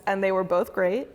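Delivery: ordinary talk, nothing marked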